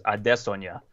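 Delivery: "Adesanya" said smoothly, ah-DESS-on-ya; native name pronunciation. Shown as a demonstration. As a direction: say "Adesanya" unforced, stressing DESS. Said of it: "That's how, like, Israel and his brother both say it".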